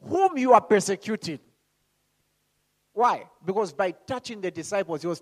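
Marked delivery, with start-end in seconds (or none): 0.0-1.4 loud, high, very drawn-out opening words; declaring as Jesus. Acted. Preacher voicing Jesus answering Saul, thundering declaration. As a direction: proclaim it slowly with huge weight. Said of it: "And then he said".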